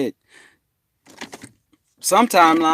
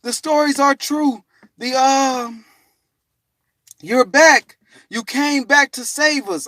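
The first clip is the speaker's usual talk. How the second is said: excited greeting; 12 semitones higher, 4 dB louder, slower than usual. Retold or imitated. Others greet his return.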